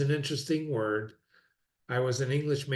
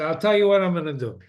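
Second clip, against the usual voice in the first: firm ultimatum; 3 semitones higher, 8 dB louder, faster than usual. Retold or imitated.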